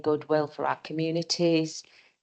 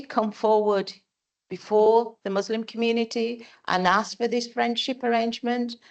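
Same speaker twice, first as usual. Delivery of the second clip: fighting to get the words out, pausing to steady herself; emotional, holding back tears; 4 semitones higher than usual. Real, not acted. Councillor near tears defending her motion to the mayor, emotional and strained. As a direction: voice rising high and straining with real emotion. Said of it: "I'm gonna get quite emotional here".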